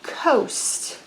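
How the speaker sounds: coast whispered softly, breath only; whispered word. Shown as a demonstration. Teacher whispering coast to the kids. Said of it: "I just said all the letters from the word".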